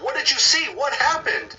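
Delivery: high, frantic questions in terror; breathless scared daughter begging to know; panicked questions. Retold or imitated. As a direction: cry out in panic, pitch way up. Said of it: "Misty's asking her mom".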